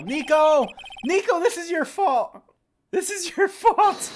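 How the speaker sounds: loud, rising furious blame; shouting at Nico after losing the trial; angry yelling. Real, not acted. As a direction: yell at Nico, blaming him. Blaming partner after losing trial.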